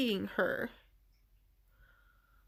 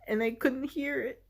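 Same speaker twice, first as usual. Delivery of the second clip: choked up, higher and fighting tears; getting emotional; 3 semitones higher than usual. Real, not acted. Telling a listener about a lost inner voice, choked up. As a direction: voice rising and thinning as tears come. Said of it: "just automatically getting emotional".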